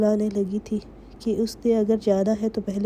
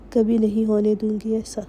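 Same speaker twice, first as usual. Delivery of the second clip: sharp angry tone. A narrator's reading. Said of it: "تیز لہجے میں کہا".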